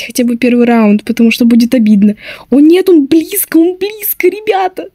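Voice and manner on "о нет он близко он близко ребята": being chased. Real, not acted. Seeker close.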